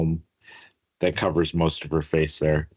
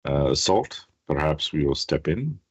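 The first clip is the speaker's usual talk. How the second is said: Quentin. Acted. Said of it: "Quentin goes".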